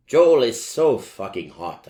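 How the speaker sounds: loud, gushing about the singer; excited gushing. A narrator's reading. Fan shouting to friend at a concert, excited. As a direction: blurt it out, thrilled. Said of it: "I said to Draco".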